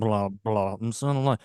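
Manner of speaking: Russian intonation. Pretend. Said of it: "you got that Russian intonation".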